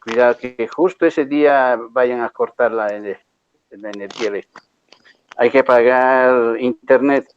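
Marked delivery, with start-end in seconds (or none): 3.7-7.3 joking whisper of a warning; whispered aside. Acted. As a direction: whisper it like a half-serious secret. Half-joking warning to students. (susurro en tono de broma)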